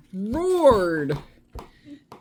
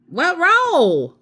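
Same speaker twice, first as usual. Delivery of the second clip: high, louder puzzled "What roll?"; puzzled question; 11 semitones higher, 6 dB louder than usual. A narrator's reading. Amelia Bedelia baffled by the list, asking high and loud. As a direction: ask it baffled, pitch jumping up. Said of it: "she said".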